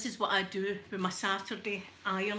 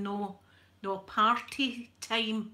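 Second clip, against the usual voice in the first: slow, emphatic Scottish "party time"; Scottish comedian retelling; 3 dB louder, much slower than usual. Retold or imitated. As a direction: correct him slowly in a Scottish accent. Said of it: "Kevin Bridges turned around and went".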